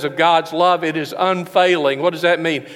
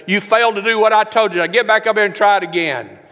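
higher-pitched mock coach's reprimand; imitated coach; 4 semitones higher than usual. Preacher recalls a coach telling him he failed, lightly imitated reprimand. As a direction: lightly act out a coach ordering another try. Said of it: "when a coach would say".

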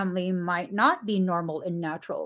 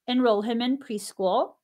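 ordinary talk, nothing marked

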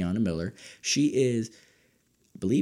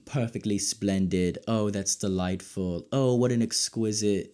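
mock British. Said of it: "just being British kind of brings about this vocabulary".

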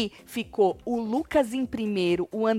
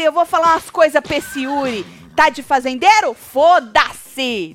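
loud, higher mock defiance; defiant outburst; 4 semitones higher, 7 dB louder, slower than usual. Retelling Lucas's outburst at Yuri, loud mock defiance. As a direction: play him spitting it out defiantly.

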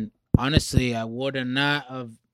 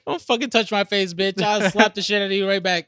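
mock angry; 7 semitones higher, 5 dB louder than usual. Acted threat, loud.

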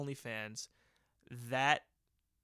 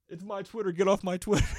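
mock indignant yell; 6 semitones higher, 10 dB louder than usual. Mocking the star's Twitter rant.

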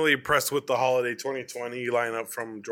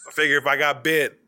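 loud zombie moan; 6 dB louder than usual. Retold or imitated. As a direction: wail it like you just got bit. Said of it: "That's my impression of a zombie".

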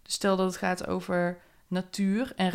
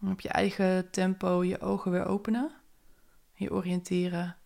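calm closing meditation voice; guided meditation. Acted. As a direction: ease them back into the room.

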